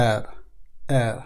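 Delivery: এর with a trembling, rolled র; এর with a shaky, rolled ending. Shown as a demonstration. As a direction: roll the র in এর. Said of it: "কাপা, কাপা ভাব".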